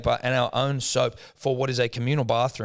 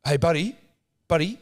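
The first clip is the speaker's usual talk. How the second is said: imitating neighbour; 6 semitones higher, 4 dB louder than usual. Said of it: "looks at me and goes".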